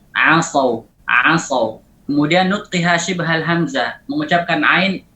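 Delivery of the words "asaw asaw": asaw with a light, thin ain. Shown as a demonstration. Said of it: "Harus dibaca tarqiq".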